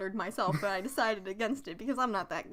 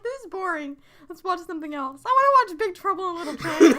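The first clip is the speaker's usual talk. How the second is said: bored Kimber; 7 semitones higher, 8 dB louder than usual. Retold or imitated. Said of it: "I think she'd be like".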